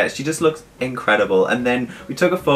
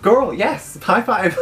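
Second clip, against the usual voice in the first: put-on squealy girl yes; 9 semitones higher, much slower than usual. Excited reply to a high-five.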